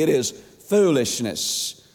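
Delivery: slow, emphatic stress on "foolishness". Real, not acted. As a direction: draw out "foolishness" slowly to drive it home. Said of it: "I'm gonna say it emphatically".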